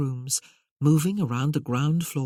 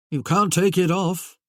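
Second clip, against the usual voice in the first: protesting Merlin voice; 3 semitones higher, 6 dB louder than usual. Acted.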